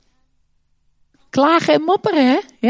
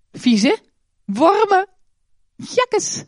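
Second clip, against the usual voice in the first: disgust; 8 semitones higher, much slower than usual. Acted. Children's talk, worms in bread.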